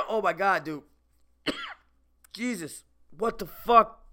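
on the edge of gagging; sick to the stomach, barely holding; queasy. Real, not acted. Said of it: "I'm gonna throw up".

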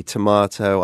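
"tomato" said the British way, tuh-MAH-toh; British pronunciation. Shown as a demonstration. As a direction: say "tomato" with a long British ah in the middle. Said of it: "a little bit of that accent code switching".

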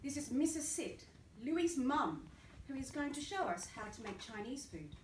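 a hint of a bright teacher introducing a guest; lightly voiced teacher announcement; teacher's announcement. Miss Swift introducing mum to the class, lightly voiced. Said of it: "announced Miss Swift".

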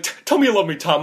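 stammering, high, loud mock plea; mock sobbing. Bar owner begging for love, hammed-up sobbing. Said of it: "just starts sobbing".

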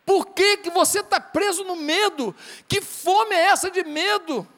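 mais alto e lento, tom de cobrança; desafio enfático. Real, not acted. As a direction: pergunta alto e devagar, cobrando. Pregador desafia com força. (cobrança alta e lenta ao fiel)

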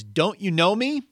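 loud, high call; shouted question. Acted. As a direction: shout it again across the distance. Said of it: "And he's shouting this at the ghost".

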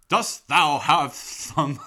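loud, slow mock-medieval proclamation; hammy Renaissance-fair bellow; loud sassy barmaid calls. Hammed-up medieval speech to waitress.

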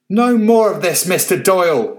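put-on butterfly Beth shouting at the old man; shouted. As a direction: halt him with authority. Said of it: "shouted Beth".

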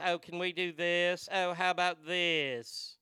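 mock twins voice. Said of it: "that are talking like this".

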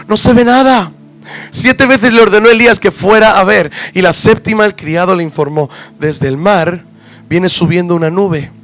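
animated Bible reading aloud; scripture reading. A narrator's reading. Preacher reads the Elijah passage to the congregation, animated scripture reading. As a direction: narrate the passage with emphatic phrasing.

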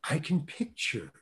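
slow, word by word, long pauses between phrases; measured reprimand. Retold or imitated. Director corrects casting director about his actor, slow measured reprimand. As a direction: imitate a director spelling it out with strained patience.

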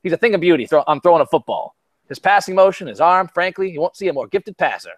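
a light Southern twang, Texan owner talking up his quarterback; mild Southern accent imitation. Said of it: "Or should I give a, a Southern twang?".

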